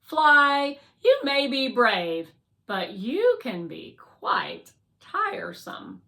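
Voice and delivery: loud, measured scolding; stern Guardian robot. Acted. Guardian calls Fly tiresome, loud and reproving. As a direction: chide the little drone with weighty words.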